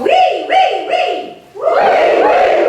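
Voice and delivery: very high, loud, bright-edged wee, wee, wee; high wee sounds. Shown as a demonstration. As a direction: squeal the wees up high and loud.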